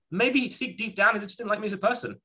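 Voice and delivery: playful high-pitched suspicion; mock dramatic musing. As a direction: pitch it up as if revealing a dark secret.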